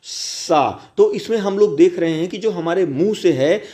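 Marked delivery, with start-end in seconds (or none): 0.0-0.9 सा repeated with a hissing s; sa sound demo. Shown as a demonstration. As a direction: say सा with friction. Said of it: "सा का उच्चारण करें".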